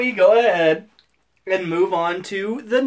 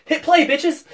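higher, punchy playful yell; called-out cue; 10 semitones higher, 3 dB louder than usual. Pretend. Podcast host mock-cueing listeners to start, rowdy call.

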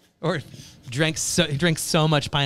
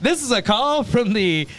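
slow, higher recorded-message voice; automated phone operator; 5 semitones higher than usual. Retold or imitated. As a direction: read it like a prison call robot. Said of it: "you'd answer the phone and, like".

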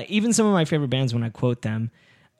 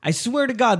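higher-pitched retold insistence; insistent pleading; 5 semitones higher than usual. Man swearing to a doubting woman, insistent. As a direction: swear it up high, pleading to be believed. Acting out his pleading to her.

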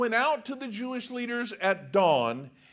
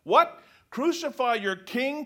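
higher, louder, disbelieving; incredulous; 4 semitones higher, 4 dB louder than usual. Acted. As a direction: ask in disbelief. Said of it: "Pilate asked".

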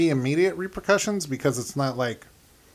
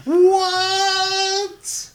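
stunned what; 4 dB louder than usual. Retold or imitated. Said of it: "I was like".

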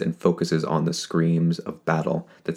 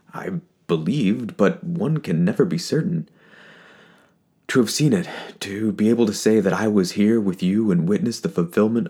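choked-up speech; 3 semitones higher than usual. Acted. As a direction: fight back tears through it. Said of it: "he chokes on his words".

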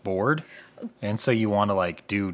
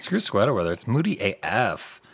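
put-on vapid girl voice. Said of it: "That's my vapid girl voice".

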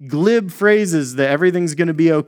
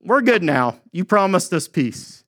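smug reassurance; 3 semitones higher than usual. Retold or imitated. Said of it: "They're like".

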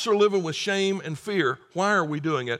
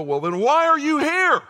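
baffled question; 11 semitones higher, 8 dB louder than usual. Acted. Questioners finally ask.

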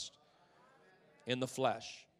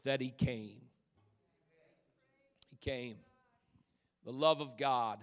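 hushed drop; 5 semitones lower, 6 dB quieter than usual. Acted. Preacher drops to hush.

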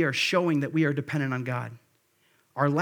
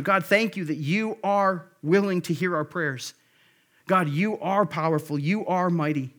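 reverent prayer. Shown as a demonstration. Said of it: "That's reverence".

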